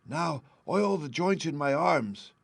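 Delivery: a little stiff, still asking; Tin Man. A narrator's reading.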